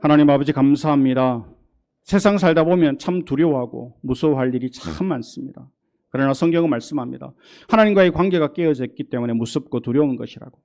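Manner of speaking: earnest pastoral prayer; closing prayer. Acted. Pastor leads the congregation in closing prayer, earnest. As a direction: pray earnestly for the flock.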